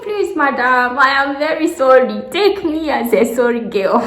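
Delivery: high, loud begging plea; hammed-up plea to the officer; mock pleading girl. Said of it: "I'm like".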